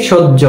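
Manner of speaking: সহ্য said "shoj-jo"; h-jophola as j. Shown as a demonstration. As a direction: double the j in সহ্য, no h. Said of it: "উচ্চারণ করি কিভাবে".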